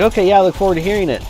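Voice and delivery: high, quick and chirpy fake politeness; mock polite reply. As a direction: brush him off with a bright, hurried okay. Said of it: "I was like".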